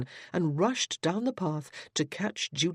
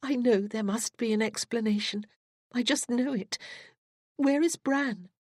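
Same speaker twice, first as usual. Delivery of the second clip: put-on higher young woman, rising with urgency; eager sister; 7 semitones higher than usual. Cassandra pressing Judith about Bran, eager. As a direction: build up with anxious hope.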